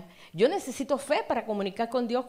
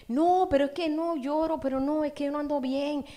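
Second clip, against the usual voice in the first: excusa lastimera imitada; 5 semitones higher, 4 dB louder than usual. Retold or imitated. Acting a despondent believer's excuse.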